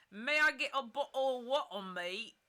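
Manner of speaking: fast, loud, high mock British; British accent. Reading a viewer's joke, quick mock British accent. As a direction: rattle it off in exaggerated British. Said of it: "Tuesday British accent".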